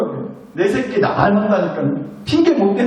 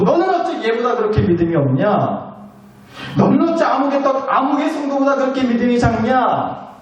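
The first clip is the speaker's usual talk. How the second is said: higher-pitched comparative telling-off; mock scolding; 4 semitones higher than usual. Imagined scolder comparing believers lined up, mock scolding. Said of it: "이렇게 혼내지는 않으신다는".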